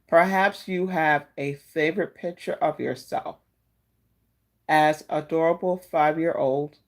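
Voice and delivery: slow, gentle reading of a card message; oracle card reading. Acted.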